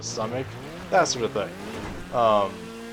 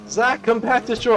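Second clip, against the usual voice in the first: calling out; 11 semitones higher than usual. Retold or imitated. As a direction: summon the kid back. Mom calling son back.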